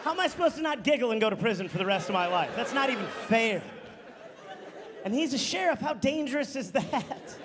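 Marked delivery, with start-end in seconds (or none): 0.0-3.6 laughing disbelief. Retold or imitated. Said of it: "I was like".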